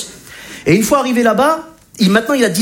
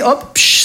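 mock takeoff hiss; 5 semitones higher than usual. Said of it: "ça va s'envoler comme ça".

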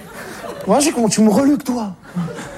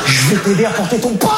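shouting. Acted. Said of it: "c'est quoi tu cries, là".

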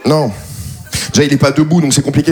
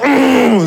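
higher, strained straining hum; hard squeeze grunt; 7 semitones higher than usual. Shown as a demonstration. Comedian showing how he didn't squeeze, hard strained grunt. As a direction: grunt as if squeezing with all your might. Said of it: "Je l'ai pas serré genre".

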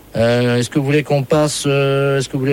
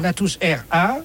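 softer parroting echo; fake call echo; 3 semitones higher, 5 dB quieter, slower than usual. Prankster echoing a customer checking her phone, mimicking echo. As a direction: copy the words back like a faint echo. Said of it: "un dédoublement d'appel".

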